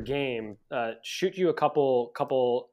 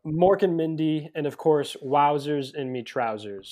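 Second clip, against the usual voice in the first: put-on American-accented catchphrases; 3 semitones higher, 5 dB louder than usual. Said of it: "with an American accent doesn't have the same hit".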